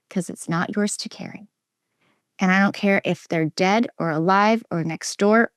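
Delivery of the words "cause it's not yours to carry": soft, tender whisper. Real, not acted. Telling listeners their pain is not theirs, whispered. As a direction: hand the words over gently, barely voiced.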